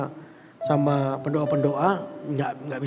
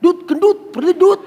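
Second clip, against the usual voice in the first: high, loud mocking shout; shrieked taunt, acted out; imitated demonic yelling; 12 semitones higher, 10 dB louder than usual. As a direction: yell the teasing nickname as the demon. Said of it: "tiba-tiba teriak begini".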